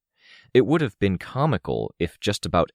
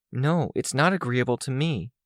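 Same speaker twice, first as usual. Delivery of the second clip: lightly voiced higher-pitched objector; objecting Amy; 8 semitones higher than usual. A narrator's reading. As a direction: push back in a slightly put-on high voice.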